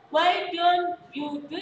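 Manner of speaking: slow, stretched English line read as a model; teacher stretching the vowel of "you" long and slow; drawn-out you. Shown as a demonstration. Teacher models a long "you" for the class. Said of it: "you-nya kurang U ya".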